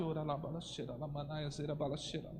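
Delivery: very quiet murmured babbling, as if to oneself. Showing how to speak in tongues to oneself without an interpreter: speaking in tongues to oneself. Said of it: "Então eu vou ficar aqui".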